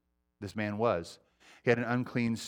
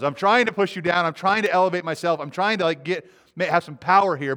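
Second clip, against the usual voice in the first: demon asserting power; 4 semitones higher, 4 dB louder than usual. Acted. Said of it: "So he knows".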